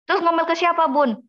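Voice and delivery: lightly voiced mum asking a question; asking viewer.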